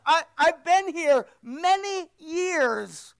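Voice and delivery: slow, whiny complaint; spouting whine. Retold or imitated. Elder son complains to his father, slow whine. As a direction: whine it out slowly like a sulking son. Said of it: "he spouts".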